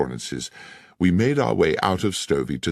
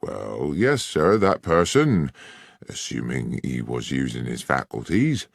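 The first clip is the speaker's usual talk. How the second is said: condescending sergeant; 3 semitones higher than usual. Acted. Sergeant lays out his theory to Holmes, condescending.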